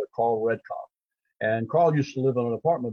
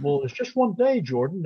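agent; 5 semitones higher than usual. Retold or imitated. Agent voiced cautioning.

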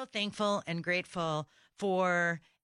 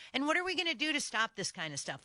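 higher and fast, fired off in exasperation; exasperated outburst; 6 semitones higher, faster than usual. Real, not acted. Radio host venting at listeners, exasperated and fast. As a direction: rattle it off like you can't believe it. Host's outraged rhetorical question.

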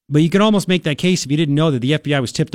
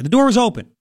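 natural spoken wording; 7 semitones higher than usual. Shown as a demonstration. Host showing how people really talk, plainly. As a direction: open said high and plain. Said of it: "you write to the ear".

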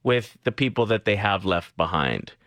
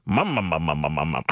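lower, low sputtering motor sounds; moped putt putt; 7 semitones lower than usual. Pretend. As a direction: putter like a little motorbike engine. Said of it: "making motorbike noises there".

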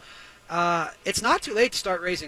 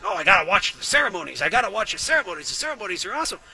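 fast, gushing mock fan voice; hammed-up eager fan gushing about the ceremonies; mocking ceremony fan; faster than usual. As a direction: parody a breathless ceremony lover. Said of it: "I know people that love them".

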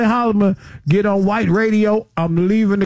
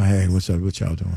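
mock Jamaican greeting, pitched much lower; 4 dB quieter than usual. Impersonating Holly in Jamaica.

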